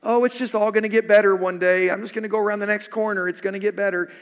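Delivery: lightly mocking, quick breezy optimism; hint of a glib Pollyanna. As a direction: rattle it off like a naive optimist. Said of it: "having some Pollyanna view of things".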